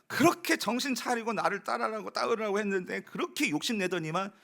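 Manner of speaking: mock scolding of a lost sheep; half-acted I-told-you-so telling off; preacher imitates a shepherd berating his lost sheep, mock scolding. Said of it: "네, 이랬을 것 같아요".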